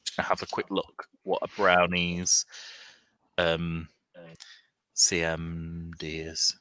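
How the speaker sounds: unvoiced whisper to herself. Real, not acted. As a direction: whisper it under your breath. GM reading rules aside.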